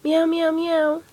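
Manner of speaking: drawn-out mews; slow kitten meows. Acted. Kittens hush and mew, slow meows.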